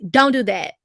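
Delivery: mock condescending order; belittling. Vlogger mimicking the CVS worker, belittling. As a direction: talk down to her like a child. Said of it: "she said it in a, you know, belittling way".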